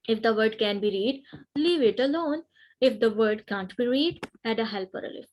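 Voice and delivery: a teacher slowly reading out a grammar rule. Shown as a demonstration. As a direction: read the rule out slowly, word by word.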